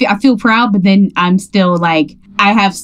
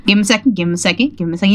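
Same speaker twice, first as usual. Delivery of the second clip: put-on kids' show host; much faster than usual. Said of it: "kids' games where they're quiet".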